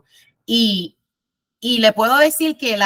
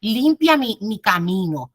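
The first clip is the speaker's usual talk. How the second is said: prayerful plea. Shown as a demonstration. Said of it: "tienes que decir en tus oraciones".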